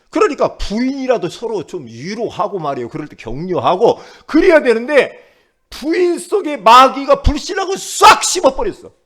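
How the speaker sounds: rising to loud, high pulpit delivery; forceful preaching. Real, not acted. Preacher on the wife who should have comforted, forceful preaching. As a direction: build in pitch and force as you preach.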